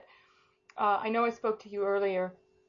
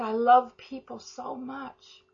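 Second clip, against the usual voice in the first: tender quote; 5 semitones higher, much slower than usual. Retold or imitated. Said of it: "But she said".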